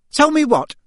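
high, loud, sharp question; piercing maternal demand; suspicious mother. A narrator's reading. Suspicious mother interrupts the row.

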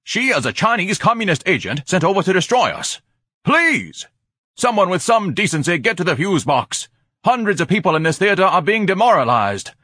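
loud, high-pitched pompous tirade; indignant demand. A narrator's reading. Ignatius denounces the film to the whole theater, ranting loudly. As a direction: rant in outrage, peaking on the accusations. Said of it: "Ignatius demanded in the darkness".

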